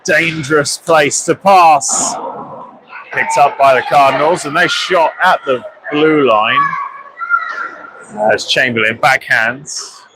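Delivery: steady live hockey commentary; play-by-play. Acted. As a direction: call the game as it unfolds.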